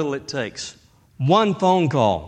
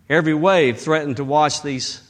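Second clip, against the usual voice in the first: ordinary talk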